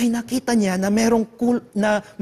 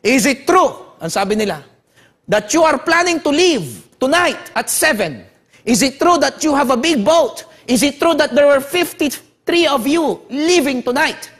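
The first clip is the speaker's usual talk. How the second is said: hostile interrogation; 4 semitones higher than usual. Retold or imitated. Soldier interrogating the prisoner.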